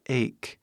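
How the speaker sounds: ache said with a final K; ache with K sound. Shown as a demonstration. Teacher explains the spelling, ache pronounced with K. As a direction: end ache on a clear K. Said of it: "Faz som de K as duas vezes".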